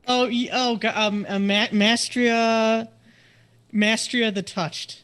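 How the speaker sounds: high, loud rock voice; booming little rock creature; talking rock. Acted. GM voicing the rock character.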